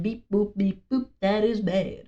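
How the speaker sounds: lightly voiced robot, beeping syllables; a hint of robot monotone. Robot child answering the mother, light mock-robot voice. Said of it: "the robot is like".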